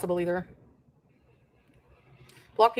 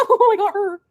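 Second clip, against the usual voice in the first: mock gloating; 11 semitones higher, 7 dB louder than usual. Mocking the harasser's gloating.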